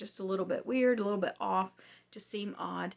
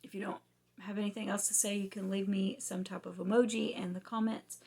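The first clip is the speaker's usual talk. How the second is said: losing voice; 3 dB quieter than usual. Real, not acted. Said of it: "Sorry, I'm losing my voice".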